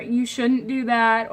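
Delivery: slow, friendly warning with a smile; smiling, gentle. Shown as a demonstration. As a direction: say it kindly, no edge. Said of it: "if you're smiling to someone and saying".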